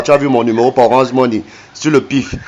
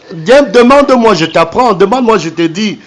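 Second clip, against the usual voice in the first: mocking taunt; 5 semitones higher than usual. Real, not acted. Taunting scammer, offering lessons.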